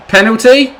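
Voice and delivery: high, loud incredulous question; outraged disbelief. Real, not acted. Gamer protesting a denied penalty, high and loud. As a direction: shout it in disbelief.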